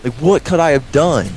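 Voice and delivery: high, laughing, incredulous retelling; retold disbelief. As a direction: act out your own baffled outrage, half-laughing. Retold disbelief at being called in.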